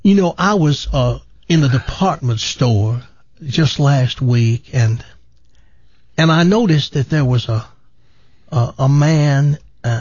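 lightly voiced preacher starting another anecdote; Joel Osteen impression. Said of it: "a typical, you know, Joel Osteen story".

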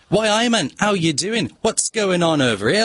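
imitating a singer's Liverpool voice, rising; Liverpool accent. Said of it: "I should be able to do this".

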